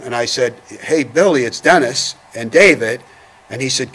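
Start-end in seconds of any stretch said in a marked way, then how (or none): 0.7-3.0 retold yell. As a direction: call out as if yelling to him, held back. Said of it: "so I yelled to him".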